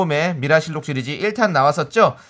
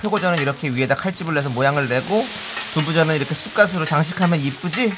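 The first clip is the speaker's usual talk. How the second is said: daughter-in-law role. Acted. 며느리 역할 재연 콩트.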